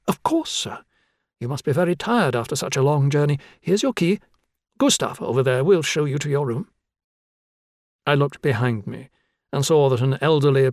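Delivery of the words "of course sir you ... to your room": a hint of a flustered, apologetic young clerk; lightly voiced eager desk clerk.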